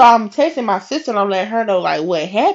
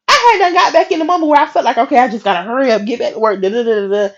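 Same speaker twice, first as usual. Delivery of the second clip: rattled off in a rush; hurried; 3 semitones higher, faster than usual. Acted. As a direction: race through it, trailing into filler. Acts out hurrying back to work.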